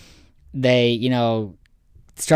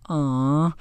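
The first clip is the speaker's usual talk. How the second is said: higher, drawn-out imitation crowd "aw"; mock group aww on cue; audience aww; 4 semitones higher than usual. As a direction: coo it like a cued audience. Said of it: "They're like".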